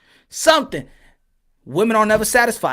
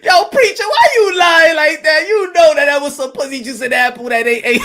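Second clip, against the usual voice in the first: heckling shout; 4 semitones higher than usual. Retold or imitated. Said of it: "He'd be like".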